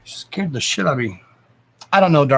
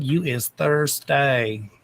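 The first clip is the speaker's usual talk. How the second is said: slow teasing; much slower than usual. Real, not acted. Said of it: "slow teasing".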